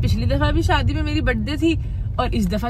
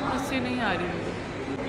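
slow, soft, tearful words; 6 dB quieter, slower than usual. Real, not acted. Wife refusing to smile as she leaves, slow and tearful. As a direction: say it slowly while crying softly. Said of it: "क्यों रो रही हैं?".

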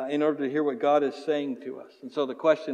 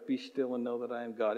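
quietly recited verse, unhurried; soft recitation; 5 semitones lower, 8 dB quieter than usual. Shown as a demonstration. Pastor modelling the memory verse, spoken softly. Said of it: "would you just memorize that one verse".

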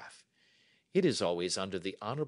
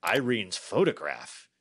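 loud exclamation of astonishment; amazed cry; 6 dB louder than usual. A narrator's reading. King staring at Holmes's request, loud amazed cry. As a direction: cry out in kingly disbelief. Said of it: "he cried".

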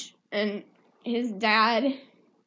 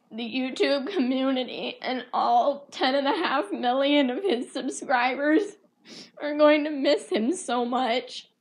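higher, tearful tribute; real crying; 3 semitones higher than usual. Real, not acted. Vlogger speaks for his subscribers who will miss him, tearful. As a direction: say it through tears, pitch lifted. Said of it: "I'm actually crying".

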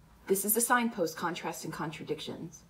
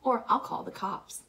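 higher-pitched biting threat; 6 semitones higher than usual. A narrator's reading. Redhead threatening to call police on Dally, biting. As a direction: lift the pitch, with a touch of bite. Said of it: "in a biting, biting voice".

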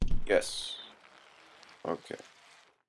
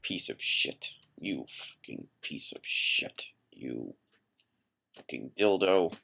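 softer, whispered venom; seething whisper; 4 semitones lower, 4 dB quieter than usual. Real, not acted. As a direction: spit the insult under the breath. Seething insult at the game.

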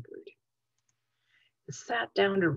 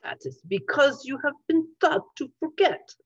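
male voice; 8 semitones higher, 4 dB louder than usual. A narrator's reading. Boris speaks.

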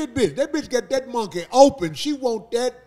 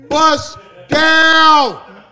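loud hype; 5 semitones higher, 11 dB louder than usual. Acted. Hyping twerking woman.

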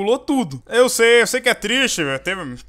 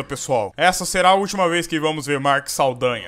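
ordinary talk, nothing marked

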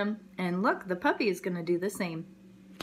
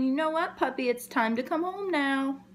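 a hint of higher mother's voice; mama dog; 5 semitones higher than usual. Lightly voiced mama calling her puppy home. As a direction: gently call the puppy home. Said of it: "And she's saying".

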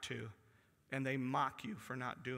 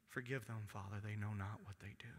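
a hushed, breathy whisper of forgiveness; whispered prayer; 6 semitones lower, 6 dB quieter than usual. Acted. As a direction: whisper it as a dying man's plea. Voicing Jesus on the cross.

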